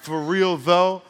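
Ebonics, slow and punched; demonstrated Ebonics phrase. Shown as a demonstration. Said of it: "that's Ebonics".

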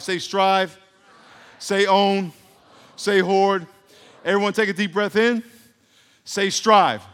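loud prompts for the crowd to repeat; call and response. Real, not acted. Preacher leading a call-and-response, loud and rousing. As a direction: rouse the congregation to answer back.

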